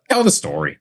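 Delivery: high, eager push to go on; high excited urging. Real, not acted. Urging co-host to tell story.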